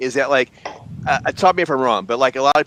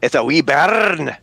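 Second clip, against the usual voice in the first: mock Scots; 3 semitones higher, slower than usual. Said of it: "speak Scots English".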